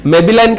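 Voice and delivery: Maybelline said "may-bi-line", with a short i in the middle; mock misreading of Maybelline as "may-bi-line"; imitated mispronunciation. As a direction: mimic a customer saying Maybelline as "MAY-bi-line". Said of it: "It is not Maybelline".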